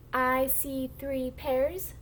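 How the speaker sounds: slow, stretched model sentence for beginners; slow model reading. Shown as a demonstration. Teacher models a sentence for the class to echo, slow model reading. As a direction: read slowly word by word, rising at the end. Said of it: "I'm gonna read the sentence first".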